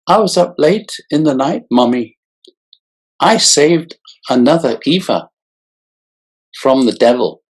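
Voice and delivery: put-on high eager little-boy falsetto; childlike falsetto. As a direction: talk up high like a proud child. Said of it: "a childlike falsetto whimpered".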